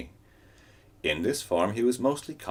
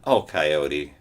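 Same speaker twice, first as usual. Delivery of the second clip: sighed; 5 dB louder than usual. Acted. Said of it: "sighed Wolf".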